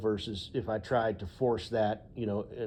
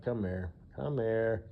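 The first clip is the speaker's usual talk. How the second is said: sarcastic; 4 dB quieter, slower than usual. Pretend. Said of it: "I might be a little sarcastic".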